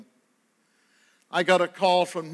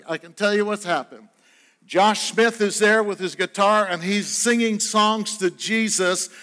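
fuller, louder preaching drive that builds to an Amen; 3 semitones higher, 3 dB louder than usual. Acted. Preaching to the congregation.

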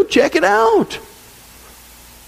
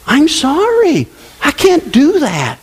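slow, higher-pitched excuse; mock apology; 6 semitones higher, slower than usual. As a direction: draw out a feigned, regretful refusal. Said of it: "People will tell family".

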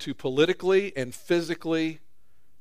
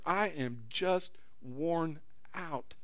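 weary sigh; 9 dB quieter, much slower than usual. Retold or imitated. Voicing a weary listener.

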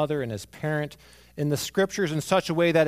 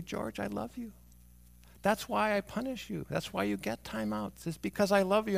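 higher, gently voiced parent to child; tender fatherly explaining; 6 semitones higher than usual. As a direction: reassure a small child after a timeout. Father tenderly explains punishment to son.

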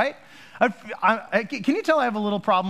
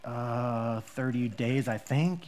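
nervous traveler; 6 semitones lower, 6 dB quieter, much slower than usual. Retold or imitated. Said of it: "And you go".

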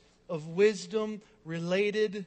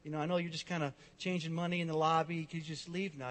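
mock polite; 3 semitones lower than usual. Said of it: "didn't really politely say".

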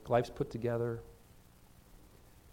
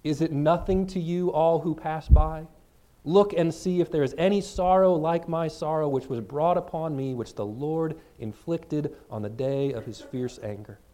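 louder, pleading lament; lament reading; 2 semitones higher, 5 dB louder than usual. Acted. Pastor reading Lamentations to the congregation, loud mournful plea. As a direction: read it as an ancient cry of sorrow. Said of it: "But so is".

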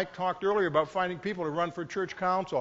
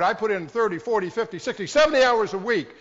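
louder, higher boast counting each hour; defensive boast; 4 semitones higher, 8 dB louder than usual. Retold or imitated. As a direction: list the hours proudly and loud. Congregant boasting about work hours.

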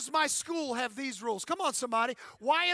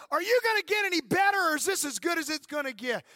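Earl Weaver yelling at umps; 4 semitones higher, 4 dB louder than usual. Retold or imitated. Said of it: "Earl Weaver would run out there and go".

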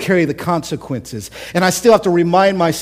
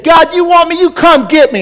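retold defiant yell; 12 semitones higher, 7 dB louder than usual. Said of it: "and I said".

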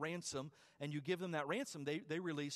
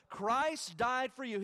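loud slow proclamation; 4 semitones higher, 6 dB louder, much slower than usual. Acted. Repeated line, now at a climax.

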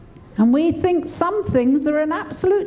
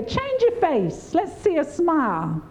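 put-on coaxing children. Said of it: "Like we do the, the, to the children".

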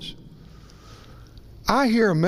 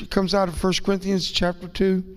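ordinary delivery

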